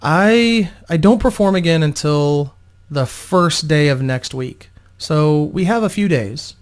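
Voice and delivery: slow, hesitant shaken voice; a touch of lingering fear, slowly. Acted. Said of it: "still visibly disturbed by the events of the evening".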